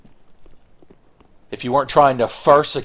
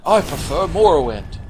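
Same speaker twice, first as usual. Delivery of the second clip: tag; 5 semitones higher than usual. Pretend. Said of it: "He's like".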